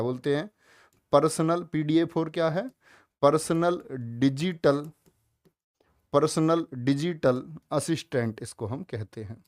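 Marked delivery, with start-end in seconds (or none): 3.2-8.4 slow emphasis. Shown as a demonstration. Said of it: "important question है".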